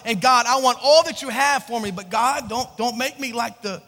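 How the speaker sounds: loud, insistent pleading; sincere prayer. Retold or imitated. Preacher voicing the congregation's prayer to God, loud and earnest. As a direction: build an earnest prayer with forceful emphasis. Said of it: "it was a sincere prayer".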